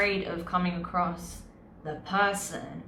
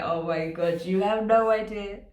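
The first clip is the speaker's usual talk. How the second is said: laughing; 2 semitones higher than usual. Real, not acted. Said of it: "Sorry I'm laughing so much".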